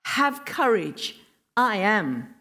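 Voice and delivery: measured, weighty quote with COURAGE and AM drawn out; slow, emphatic declaration of "I am"; deliberate emphasis. Retold or imitated. Preacher rewords Jesus' call to the disciples, solemn emphasis.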